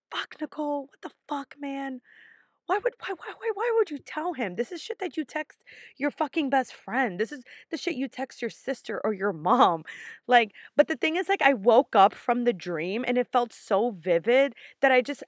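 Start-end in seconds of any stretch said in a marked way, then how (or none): 0.1-9.8 high scolding rant at herself; higher, frustrated self-scolding; exasperated. Retold or imitated. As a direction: scold yourself in disbelief. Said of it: "I'm like".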